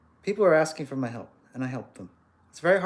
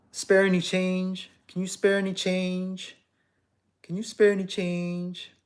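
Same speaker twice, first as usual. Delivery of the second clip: slow, higher, pleading; begging stranger; 4 semitones higher than usual. Retold or imitated. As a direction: plead for coins like a beggar. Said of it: "approached by a homeless person".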